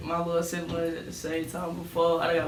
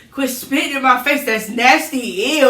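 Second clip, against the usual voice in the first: grandma; 6 semitones higher, 9 dB louder than usual. Retold or imitated. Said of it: "don't so".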